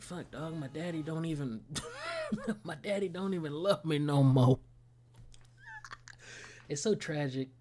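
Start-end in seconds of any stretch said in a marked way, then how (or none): 0.0-1.6 a hint of a hurt kid complaining, breaking into a laugh; mock whiny lament. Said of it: "she's like". 1.7-2.6 very high squeaky giggle; a quick squeal of laughter. Real, not acted. Laughing mid-quote. 2.6-4.6 a hint of a hurt kid complaining, breaking into a laugh; mock whiny lament. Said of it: "she's like".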